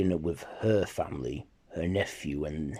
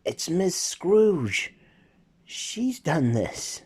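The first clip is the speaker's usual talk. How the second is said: high, slow and weak with each breath; sick boy on oxygen; 10 semitones higher, 4 dB louder, much slower than usual. Acted. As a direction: speak slowly like a frail child breathing from a tank. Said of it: "breathes in on his oxygen tank".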